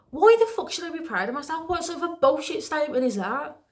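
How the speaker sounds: indignant retort. Retold or imitated. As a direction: throw the compliment back, indignant. Indignant retort to retold compliment.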